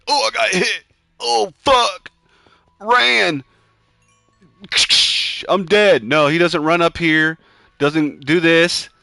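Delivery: high, loud panicked cursing; frantic while getting hit. Real, not acted. Fighting off a witch in Minecraft, high panicked yelps.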